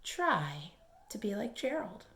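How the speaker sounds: soft unvoiced whisper; whispered encouragement. Real, not acted. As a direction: whisper it like a secret. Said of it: "speaker whispers".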